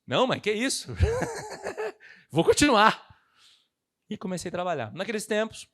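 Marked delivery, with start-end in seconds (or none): 0.1-3.0 determined reply. Retold or imitated.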